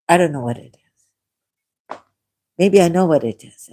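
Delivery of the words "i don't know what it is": hushed whisper to herself. Real, not acted. Whispering to herself about her failing memory. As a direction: breathe it out as a private aside.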